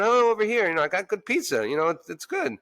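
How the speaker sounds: light mock pitch to customers; calling out. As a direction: invite them over, selling it. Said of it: "that's why I'm going".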